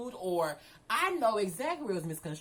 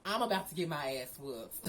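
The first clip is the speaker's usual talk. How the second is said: laughing; 4 semitones lower than usual. Real, not acted.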